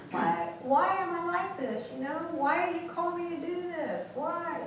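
high pleading questions to God; retold plea. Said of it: "I'd be like".

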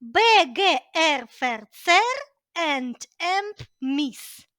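rhythmic rote recitation, syllable by syllable; like a little rhyme. Shown as a demonstration. Teacher recites prefixes learned at school, as a rhythmic rhyme. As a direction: chant the prefixes in beats, stretching the last ones. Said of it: "вчимо ми їх як віршик".

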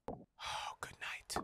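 hushed whisper. Real, not acted. Gamer whispering while hiding from Grandma.

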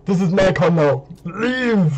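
mock action-hero command; Arnold. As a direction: claim it like a lightly hammed Terminator. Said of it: "if Arnold Schwarzenegger watched this video".

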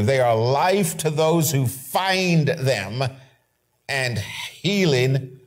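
slow, deliberate scripture read; solemn preacher reading the verse. Acted. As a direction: read each word of the verse slowly.

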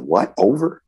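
can't believe it's over, high and incredulous; disbelief. Retold or imitated. Player hears his career is ending, in disbelief. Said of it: "I couldn't believe it".

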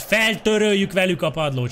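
ordinary talk

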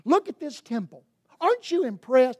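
gushing, high and loud with wonder; awed disciples. Acted. Disciples showing Jesus the temple, gushing and amazed. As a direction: show off the temple, all amazed.

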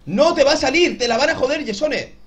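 tense loud taunt. Real, not acted. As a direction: push yourself through the pressure. Tense moment in the game.

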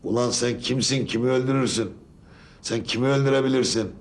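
angry outburst on a phone line; over the phone. Real, not acted.

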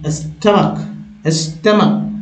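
"स्टमक" with a short uh after st; model pronunciation. Shown as a demonstration. Teacher modelling the word for learners, model pronunciation. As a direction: say "स्टमक" as stuh-muk, carefully. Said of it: "क्या पढ़ेंगे?".

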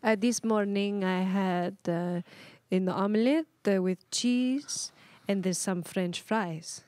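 slow, halting in-character answer; mystery dignitary. Pretend. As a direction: answer slowly, piece by piece, as the dignitary.

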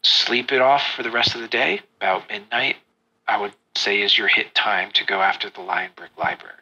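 lightly voiced spymaster, low; Albrecht. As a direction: drop the voice to brief the party discreetly. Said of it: "he looks at you and he says".

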